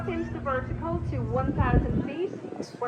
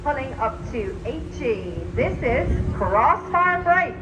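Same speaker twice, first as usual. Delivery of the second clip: airshow commentator. Acted.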